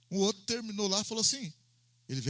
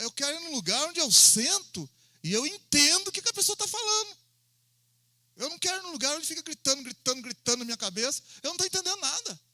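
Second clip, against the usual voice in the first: insistent visitor; 7 semitones higher than usual. Retold or imitated. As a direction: press the point, voice raised. Visitor insists, complains of shouting. (visitante insistente, voz aguda e mais alta)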